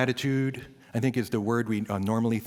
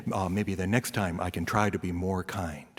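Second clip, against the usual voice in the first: ordinary delivery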